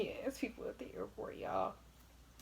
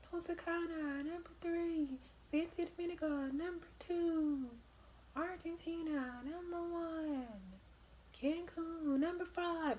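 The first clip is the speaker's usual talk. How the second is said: announcing loudly; 9 semitones higher, slower than usual. Retold or imitated. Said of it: "really freaking loud".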